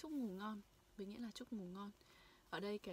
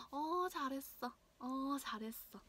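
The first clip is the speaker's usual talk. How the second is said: higher, quick and bright praise; excited praise; 4 semitones higher, 5 dB louder, faster than usual. Shown as a demonstration. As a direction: praise them with real delight. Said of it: "Ồ, thực sự đã làm rất, làm rất tốt rồi". (khen ngợi hào hứng)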